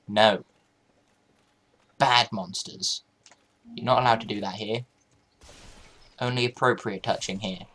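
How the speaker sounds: scolding. Pretend. Scolding monsters like a parent.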